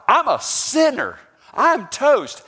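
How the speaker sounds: high, loud anguished cry of "I'm toast"; emotive cry. Retold or imitated. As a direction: cry out like a man undone before God. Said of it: "He emotively cries out".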